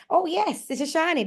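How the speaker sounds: put-on high, proud girlfriend showing off a friend; imitating a proud, excited introduction; proud announcement. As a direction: announce it proudly, pitch leaping up. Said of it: "my girlfriend proudly turns around and goes".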